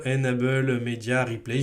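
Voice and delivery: English name in a French accent. Real, not acted. Presenter reading out the extension's English name, French accent. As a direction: say it with French vowels and stress. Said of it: "mon super accent".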